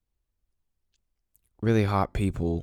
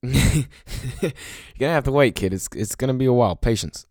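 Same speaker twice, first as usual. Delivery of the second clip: laughing mock advice; 5 semitones higher, 5 dB louder than usual.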